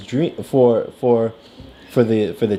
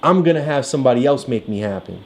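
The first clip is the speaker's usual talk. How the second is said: high voice of a chance; 3 semitones higher, faster than usual. Retold or imitated. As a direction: speak as the chance itself. Voicing the chance character.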